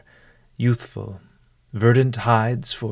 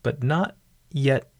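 measured instructions with long pauses; guided meditation. Acted. Host settling a listener before a mindful meal, guided meditation. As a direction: guide the listener unhurriedly, leaving room after each step. Leads a mindful eating exercise.

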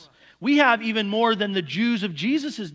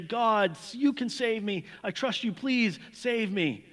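pleading prayer; 5 semitones higher, slower than usual. Retold or imitated. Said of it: "pray and cry out to God".

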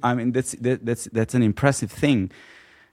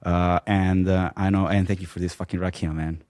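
tipsy; 2 semitones lower, 3 dB quieter than usual. Real, not acted. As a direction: talk like a few drinks are in. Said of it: "I think I'm getting drunk".

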